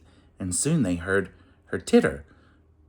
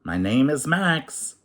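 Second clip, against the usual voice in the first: prim and snooty; 5 semitones higher than usual. Acted. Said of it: "his manner prim and snooty".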